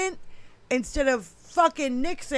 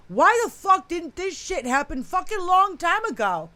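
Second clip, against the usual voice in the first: pissed; 4 semitones higher than usual. Real, not acted. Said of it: "I'm pissed".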